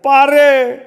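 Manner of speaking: high, piercing cry of his wife's name; shrill scream. Acted. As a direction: scream it out in terror, high and loud. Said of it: "किरकसपणे ओरडला". (कर्कश, उंच किंकाळी)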